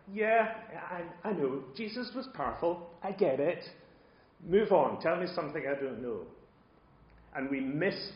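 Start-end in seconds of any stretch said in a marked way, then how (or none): 0.1-6.3 impatient know-it-all, pitched up; mock-bored, hurry-along listener; blasé. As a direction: brush it off like old news. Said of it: "we can get blasé".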